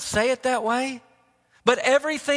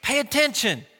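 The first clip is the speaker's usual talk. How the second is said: mild coach's yell, pitched up at the start; retold dugout yell. Coach calling to his goofing shortstop, mock yell. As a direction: call a warning out to a distracted player. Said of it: "I yell from the dugout".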